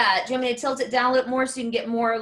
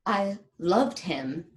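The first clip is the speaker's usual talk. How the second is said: wounded confession with long, weighted pauses; betrayed lover's monologue. Acted. Performs dramatic monologue for coaching.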